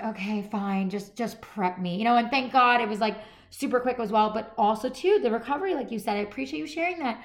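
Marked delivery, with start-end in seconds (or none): 0.0-1.9 resigned. Retold or imitated. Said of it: "And I'm like".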